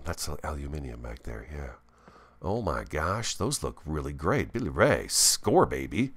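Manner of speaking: ordinary talk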